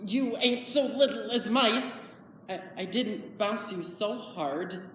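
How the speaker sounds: lightly voiced rustic simpleton, fretting; puzzled and troubled, in simple country speech; Lenny. Man talking to the pup he killed, fretful. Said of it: "I will be performing Lenny from".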